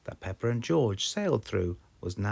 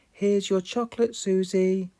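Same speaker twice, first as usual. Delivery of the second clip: put-on high, loud little girl; child proudly handing over; Peppa voice; 12 semitones higher, 7 dB louder than usual. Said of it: "Peppa said".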